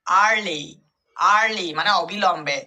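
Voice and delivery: আর্লি said slowly, a-sound then r; pronunciation demo. Shown as a demonstration. Teacher modelling আর্লি for students. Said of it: "কোথায় হবে একটু ভালোভাবে লক্ষ্য করো".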